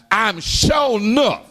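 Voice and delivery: "sure enough" pitched high and stretched; emphatic insistence. Retold or imitated. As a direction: lean hard on "sure enough". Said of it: "I want to emphasize".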